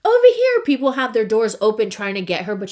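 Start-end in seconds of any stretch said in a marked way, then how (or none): 0.0-0.6 high, loud shout to get attention; calling out. Retold or imitated. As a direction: yell it across the street. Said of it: "people are like".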